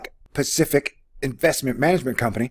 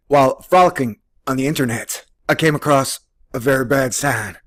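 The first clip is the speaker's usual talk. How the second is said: ordinary delivery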